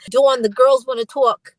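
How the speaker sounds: slow imitated Boston accent; Brooke Payne. Manager says the group wants to talk, imitated Boston accent. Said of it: "I always imitate him".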